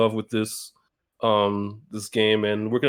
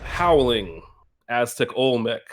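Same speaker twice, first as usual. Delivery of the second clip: dramatic intro. Acted. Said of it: "I am the howling".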